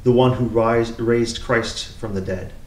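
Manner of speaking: measured, solemn lectern reading; scripture reading. Acted. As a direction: read it out as the lesson at Mass.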